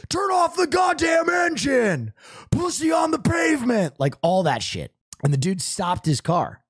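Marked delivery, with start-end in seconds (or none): 0.1-4.0 full-blown authoritative police command shout; tactical authority voice. Retold or imitated. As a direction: bark orders like a police officer. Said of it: "tactical authority voice".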